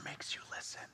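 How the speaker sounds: voiceless, hushed whisper. Shown as a demonstration. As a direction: whisper it so they lean in. Demonstrates a whisper to congregation.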